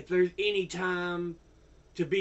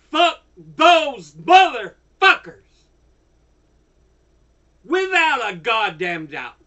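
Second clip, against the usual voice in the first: furious shout; 8 dB louder than usual. Real, not acted. Angry vlogger yelling at the lobby group. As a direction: yell it with real rage.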